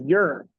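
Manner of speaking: "You're" with the final R pronounced hard, Chicago style; strong R. Shown as a demonstration. Showing how the movie character says it, "You're" with a strong R. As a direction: lean on the R at the end of "You're". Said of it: "like, really strong".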